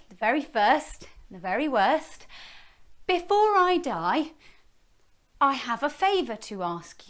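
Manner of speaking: high, sweet flattery; flattering. Acted. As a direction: princess sweet-talking the dragon into letting her close. Princess flattering dragon.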